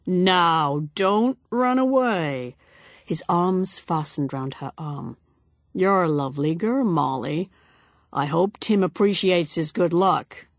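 a hint of a boozy, hearty man; jovial, pushy bonhomie, lightly played; lightly voiced tipsy guest. Tipsy Dyson urging Molly to be familiar, hearty.

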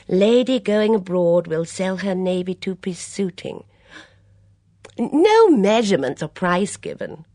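put-on high, lively voice of a fussy older lady; a bright, gossipy mother at breakfast; chatty Mrs Swettenham.

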